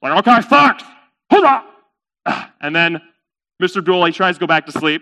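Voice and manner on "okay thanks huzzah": high, loud gleeful cheer; delighted thanks. Acted. Camel let into the tent, delighted. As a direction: cheer triumphantly.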